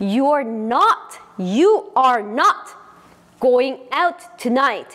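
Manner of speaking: very slow, loud, full form, "not" heavily stressed.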